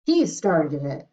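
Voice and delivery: king crying out. Acted. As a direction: point the finger and cry out. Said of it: "he cried".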